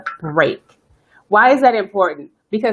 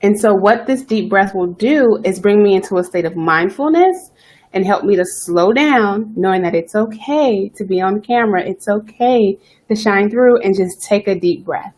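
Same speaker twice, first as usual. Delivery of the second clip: slowed, settled, unhurried; calm after a breath. Real, not acted. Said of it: "chi and calm I am now".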